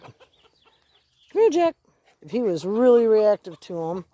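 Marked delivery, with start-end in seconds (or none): 0.0-1.8 much higher, stretched-out rising call; way up high calling the dog by name; high sing-song call. Real, not acted. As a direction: sing it up high to lure him.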